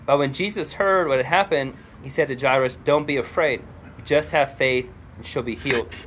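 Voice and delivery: animated read-aloud of a Bible passage; scripture reading. A narrator's reading. Preacher reading the story of Jairus to the church, animated scripture reading. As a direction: read scripture out to a congregation, with emphasis.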